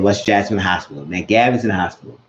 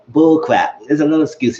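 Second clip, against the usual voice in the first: retold scolding; 6 semitones higher, 4 dB louder than usual. She scolds him angrily.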